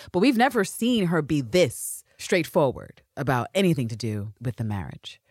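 ordinary talk

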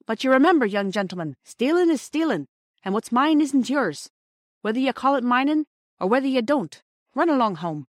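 high, emphatic lecture; admonishing station master. A narrator's reading. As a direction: warn them firmly, then dismiss them. Station master warns, lets them go.

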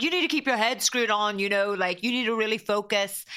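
dad's voice. Retold or imitated. Daughter repeating her father's advice in a mock-stern dad voice. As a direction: lightly play the strict dad telling her to focus. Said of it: "I'm with the voice".

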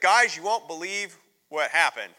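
loud, breathless big news; can't wait to tell them; excited Philip. Retold or imitated. Philip voiced returning with news.

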